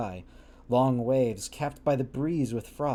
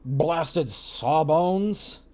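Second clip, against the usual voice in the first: put-on drunken curse; 3 semitones higher, 4 dB louder, much slower than usual. Drunken captain insults Montgomery.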